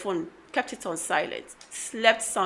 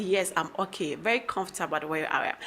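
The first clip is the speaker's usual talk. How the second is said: soft, unbothered reply; retold calm answer, lower and softer; relaxed; 4 semitones lower, 8 dB quieter than usual. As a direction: at ease, acting out an untroubled reply. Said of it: "I'm so kind of relaxed".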